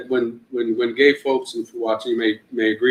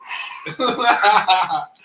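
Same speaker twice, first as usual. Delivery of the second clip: winded gasp, higher than usual voice; out-of-breath panting; 7 semitones higher than usual. Acted. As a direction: act out gasping on the stairs. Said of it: "By the third, I'm like".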